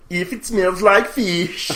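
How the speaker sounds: slow drawn-out gag line; catchphrase voice. Pretend. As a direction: drag out the catchphrase, grinning.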